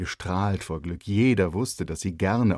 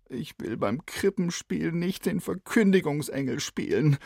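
blurting out; 9 semitones higher than usual. A narrator's reading. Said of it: "brach es aus Kalle heraus".

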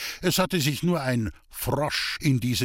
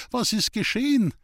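high, raised call upward; 10 semitones higher than usual. A narrator's reading. Boy shouting up to the hanging woman. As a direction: shout the question up the tree. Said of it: "schrie ich hinauf".

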